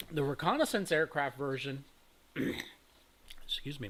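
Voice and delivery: dry-mouthed, throaty voice; words catching in a dry throat. Real, not acted. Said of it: "my mouth is drying a little bit".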